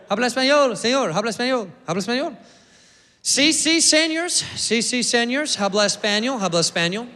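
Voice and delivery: lightly hammed-up gringo Spanish accent; imitating staff and Brad in mock Spanish accent. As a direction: repeat it like a tourist who barely knows Spanish. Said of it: "funny accent he's doing".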